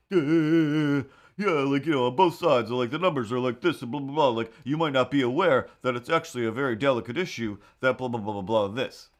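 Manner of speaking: mocking Kevin. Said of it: "some dude was basically like".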